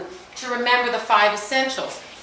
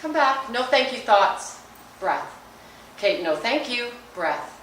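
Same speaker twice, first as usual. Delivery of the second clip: gentle self-talk. Shown as a demonstration. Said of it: "So here's me".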